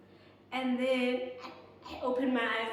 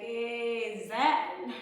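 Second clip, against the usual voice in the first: louder, drawn-out call to a friend; urgent calling out; 7 dB louder than usual. Retold or imitated. Woman phoning her friend after the scare, urgent call.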